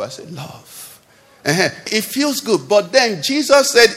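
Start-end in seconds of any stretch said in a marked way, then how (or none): 0.0-1.0 "love" said softly and tenderly, much softer, rising. Shown as a demonstration. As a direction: breathe "love" out gently with a lift. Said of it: "you're not saying it like a love".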